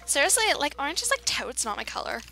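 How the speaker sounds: a touch of put-on teen slang talk; experimental slangy voice. Gamer experiments with silly slang, lightly put-on voice. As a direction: lightly play up the "like, totes" speak. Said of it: "never talking like that ever again".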